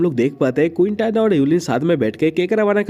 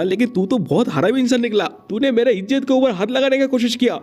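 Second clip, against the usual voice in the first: angry yelling; 3 semitones higher than usual. Acted. Yulin yells at Quinton, thinking he was groped: mild mock yell. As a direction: scold him in a lightly voiced yell. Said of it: "चिल्लाते हुए बोलता है".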